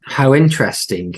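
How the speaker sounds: dry, sarcastic remark. Acted. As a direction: say it with a sneer. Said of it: "says Albert sarcastically".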